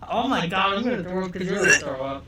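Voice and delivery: laughing and gagging at once; laughing disgust. Real, not acted. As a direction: giggle through revulsion. Watching friend gag.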